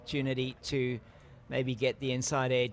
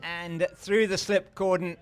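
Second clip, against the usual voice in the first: raised, animated boundary call; excited commentary; 4 semitones higher, 3 dB louder than usual. Real, not acted. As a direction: lift the voice calling the edge for four. Live call of an edge to boundary.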